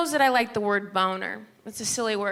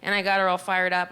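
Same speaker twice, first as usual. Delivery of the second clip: normal talking voice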